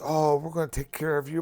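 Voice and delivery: high, sugary mock caring tone; mock sweet nurse. Patient recalling the nice nurse's promise, high sugary mock. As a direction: mimic the too-nice nurse. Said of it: "The nurse lady that was so nice".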